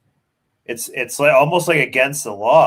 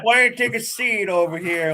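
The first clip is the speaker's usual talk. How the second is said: smooth cop voice; 6 semitones higher than usual. Retold or imitated. Imitating the cop's smooth invite.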